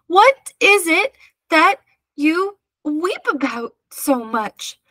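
high, slow, broken-up question; trying to get breath. A narrator's reading. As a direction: get it out in gasped pieces while being tossed. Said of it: "trying to get his breath".

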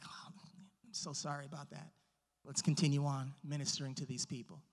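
hushed, low, casual reply; low and soft, in no rush at all; unbothered Jesus. Retold or imitated. Jesus answering news that Lazarus is sick, unbothered and hushed.

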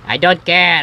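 loud mock huff; upset. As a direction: play a hurt axe refusing to listen. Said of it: "I'm, I'm, I'm upset".

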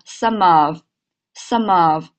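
"some of" run together as one unit; linked words. Shown as a demonstration. Teacher repeating the drill for students, words joined. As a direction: slowly link the m of "some" into "of". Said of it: "来，再来一遍啊".

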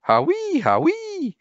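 very high squeaky howee snore; high whistling snore; funny snore. A narrator's reading. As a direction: imitate a silly snore. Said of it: "it's like".

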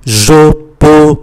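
"Je peux" with the lips fully rounded on both vowels; exaggerated lip rounding on "peux". Shown as a demonstration. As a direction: round the whole mouth for "Je peux". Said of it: "tròn cái miệng phải tròn môi".

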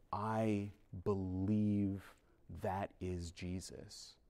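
slow, reverent statement of faith; reverent declaration. Retold or imitated. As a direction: say it slowly, like a vow. Retelling seeing the Eucharist at Mass.

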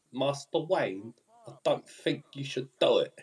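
lightly imitated film character addressing Master Wayne; put-on character voice, lightly done; Master Wayne's guy impression. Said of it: "That is what he sounds like".

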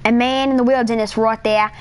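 hushed documentary narrator voice; nature documentary narration. Pretend. Narrating himself like a nature documentary, hushed. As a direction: narrate the player like wildlife.

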